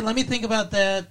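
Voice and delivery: "Let me think about that" slowed, with a pause before "No"; wrong, drawn-out delivery. Shown as a demonstration. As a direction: say it as if pondering. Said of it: "She didn't say".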